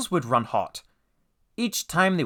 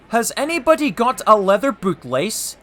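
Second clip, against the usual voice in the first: guard voice; 8 semitones higher, 6 dB louder than usual. Acted.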